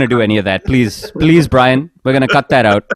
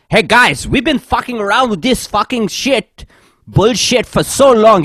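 higher-pitched mock rant of a boss losing it; imitating angry boss; 9 semitones higher than usual. Retelling coworker's outburst on a conference call, mock angry rant. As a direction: act out the manager snapping on the call. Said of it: "he just loses his mind".

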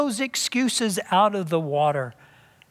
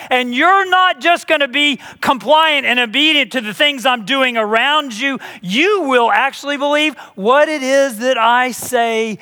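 God speaking to Moses; 8 semitones higher, 5 dB louder than usual. Acted.

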